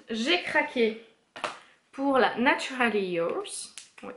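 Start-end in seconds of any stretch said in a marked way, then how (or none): 1.9-3.7 palette name said in an English accent, slowly. Real, not acted. Beauty vlogger naming her Zoeva palette in an English accent. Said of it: "excusez mon, euh, mon accent".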